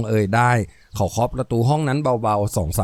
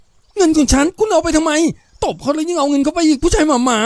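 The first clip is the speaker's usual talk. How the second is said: high-pitched wailing outrage of a robbed woman; outraged protest; 13 semitones higher, 3 dB louder than usual. Acted. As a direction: protest shrilly, far above your usual pitch. (โวยวายเสียงสูงอย่างเจ็บแค้น)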